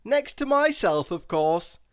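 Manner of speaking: hasty aside. Acted. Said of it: "he added hastily".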